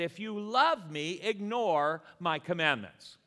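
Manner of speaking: slow mock-serious misreading of ignore; straight-faced trick misquote; deliberate misquote. Shown as a demonstration. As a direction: read the wrong verse calmly and slowly, as if it were true. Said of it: "He didn't say that".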